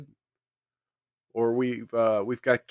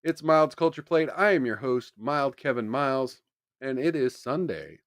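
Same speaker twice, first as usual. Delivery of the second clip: talking while chewing gum; words round a wad of gum; 4 dB quieter than usual. Real, not acted. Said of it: "Let me spit out my gum".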